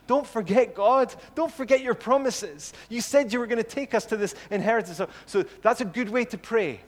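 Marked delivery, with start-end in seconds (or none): 0.1-5.0 high, raised, insistent plea; appealing to God. Acted. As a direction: press God urgently to keep a promise. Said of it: "he also appeals to God's promises".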